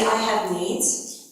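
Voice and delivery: slow, deliberate I have needs; measured prompt for the group; slow model line. Shown as a demonstration. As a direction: say it slowly for him to repeat. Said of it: "Roger, say".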